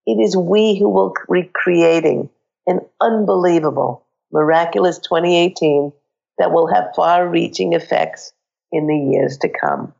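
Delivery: hoarse with a cold; scratchy, croaky throat. Real, not acted. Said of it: "my croaky voice".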